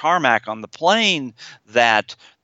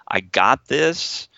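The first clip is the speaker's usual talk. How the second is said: I got this, slow and steady, sure of itself; calm in-charge inner voice: I got this; executive voice; much slower than usual. Shown as a demonstration. Therapist showing the confident inner voice saying I got this, slow and steady. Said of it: "I've gotta have an executive voice".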